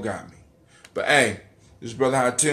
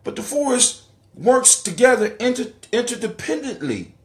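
fired-up preaching; 7 semitones higher than usual. Real, not acted. Excited preaching on forest.

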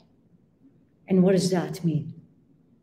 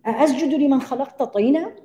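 quoting Iblis; 5 semitones higher, 3 dB louder, much faster than usual. Retold or imitated. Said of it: "why did Iblis get upset?".

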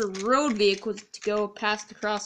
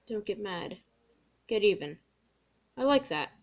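much softer, mulling it over; muttered to himself; 6 dB quieter than usual. Acted. Toby alone in the shed repeating Dennis's advice, much softer. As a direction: quietly try the words on for size.

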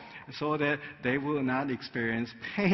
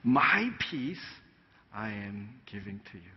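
solemn quote; 4 semitones lower, slower than usual. Acted. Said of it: "Jesus goes on and said".

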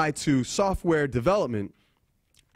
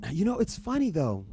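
higher, lightly voiced professor recounting a curiosity; professor's voice; 6 semitones higher, 3 dB quieter than usual. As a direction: imitate a professor chatting in a higher voice. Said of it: "She says to me".

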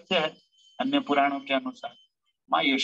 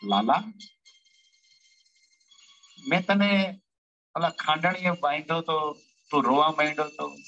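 lightly voiced Yashoda. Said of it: "કૃષ્ણને કહે છે કે".

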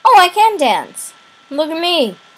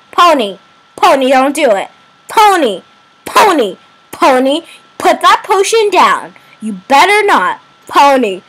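louder, urgent repeated calls; 1 calling out pleading; 2 semitones higher, 4 dB louder than usual. Real, not acted. Gamer begs Pony on screen not to drink, urgent calls. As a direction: plead with her to stop, over and over.

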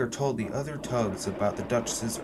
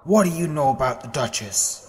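louder, suspicious snap; snapping; 6 dB louder than usual. Acted. Tug snapping at the steamer about the liner, sharp. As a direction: bite back at the nosy steamer. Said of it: "snapped Zoran".

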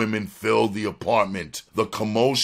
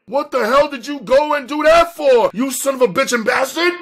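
very high, loud, fast scream; shrieking, outraged cursing; screamed in outrage; 7 dB louder than usual. A narrator's reading. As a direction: scream the accusation at top pitch. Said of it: "screamed at him".

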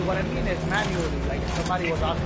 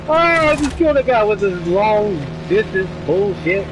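angry; 9 dB louder than usual. Real, not acted. Angry rant after dying.

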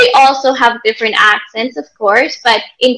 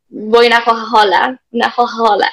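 lightly imitated Florentine, Coca-Cola as hoha-hola; a mild mock Tuscan waiter offering a Coke; Florentine accent; faster than usual. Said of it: "They'll say".

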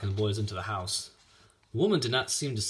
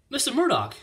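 put-on high, louder girlish appeal; pitched-up, eager address; girl calling out; 7 dB louder than usual. A narrator's reading. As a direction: call to him in a high young voice. Girl calls to farmer.

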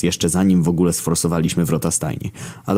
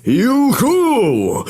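very high-pitched gleeful whoop; yelled whoop; 5 dB louder than usual. A narrator's reading. War riding circles on his horse, yelling. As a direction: whoop wildly in a high put-on voice. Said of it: "wydarł się Wojna".

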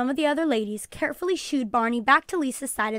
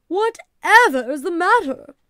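high, loud, fussy question; alarmed exclamation; 7 semitones higher, 9 dB louder than usual. A narrator's reading. Missus Perkins sees her friend's face, exclaiming in alarm. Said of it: "she exclaimed".

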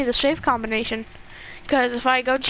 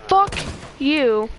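angry shout. Real, not acted. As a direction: bark "Fuck you" in real frustration. Angry at game, shouted curse.

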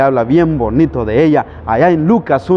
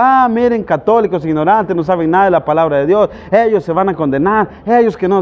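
imitating sneering neighbours, a little higher; lightly mock the ignorant Catholics; 3 semitones higher than usual. Protestant neighbours making fun of Catholics, mocking imitation. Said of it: "se burlan de nosotros".

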